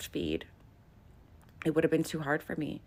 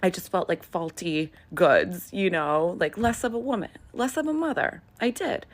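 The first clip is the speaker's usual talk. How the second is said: upset, rising; 6 dB louder than usual. Real, not acted. Telling viewers how faulty she felt, getting upset. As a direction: voice climbing with emotion.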